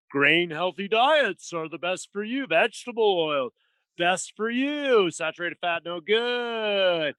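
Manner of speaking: slow, drawn-out mock announcer pitch; mock ad claims. Mimicking Kellogg's research news to his host, slow mock ad voice. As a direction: sell the claims like a hammed-up commercial. Mocking cereal-industry health claims.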